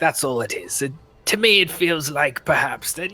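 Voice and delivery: high-pitched British character voice; British accent. Acted. Game player voices Bracho answering the room, in a high British accent. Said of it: "Gone fucking British again".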